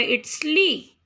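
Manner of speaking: "li" ending on the vowel, T dropped; silent T. Shown as a demonstration. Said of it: "So T is not pronounced here".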